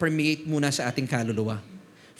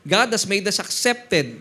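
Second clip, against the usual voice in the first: slow, louder, stress on God; emphatic repeat; 3 semitones higher, 4 dB louder, slower than usual. Acted. Pastor to church, repeating the verse slowly with force. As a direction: hammer the verse home word by word. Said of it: "repeating the verse".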